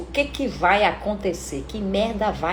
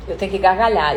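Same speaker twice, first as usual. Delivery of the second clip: forced laugh; 4 semitones lower, faster than usual. Retold or imitated. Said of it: "Quem é que vocês acham que vai ser?".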